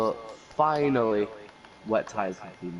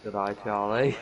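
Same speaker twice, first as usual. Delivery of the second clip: mock Aussie accent; 2 semitones lower than usual. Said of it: "the Aussie accent".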